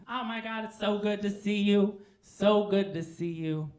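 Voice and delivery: high gushing voice settling a little; Chevy. Acted. Chevy so glad to see Ty, high and gushing. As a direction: gush it, stretching the greeting. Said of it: "he would say to me".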